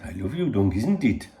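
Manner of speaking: put-on rough stab at a Welsh accent; attempted Welsh accent. Second go at quoting a Welsh friend, light Welsh accent. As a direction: try a Welsh accent, not quite managing it. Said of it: "I can't do the accent".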